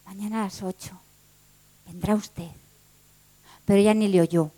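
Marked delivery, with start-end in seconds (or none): 0.1-2.5 very soft, low murmur to himself; said softly. A narrator's reading. Clerk murmuring to himself as she leaves, very softly. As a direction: breathe it quietly, almost to himself. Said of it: "él dijo bajito".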